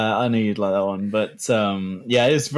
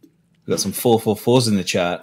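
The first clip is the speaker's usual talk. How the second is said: playing both parts. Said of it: "I'm doing both voices".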